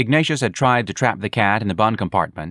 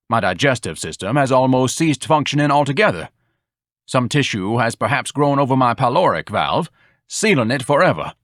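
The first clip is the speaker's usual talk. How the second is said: lightly voiced grandiose blowhard, a bit higher; mildly hammed-up pedant; pompous Ignatius; 4 semitones higher than usual. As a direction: declaim like a self-important scholar.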